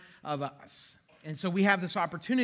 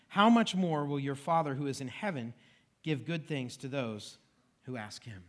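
measured reading, softening as it closes; scripture reading; 2 semitones lower than usual. Acted. Pastor reading Jesus' words to the congregation, scripture reading. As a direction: read the verses out with deliberate pauses.

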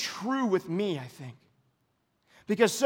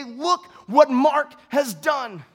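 slow mock praise; 6 semitones higher, 6 dB louder, much slower than usual. Imagined praise from crowd.

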